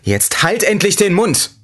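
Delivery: high, slow shouted order; yelling back. A narrator's reading. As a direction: finally snap and yell at the lemon. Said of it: "schrie ich zurück".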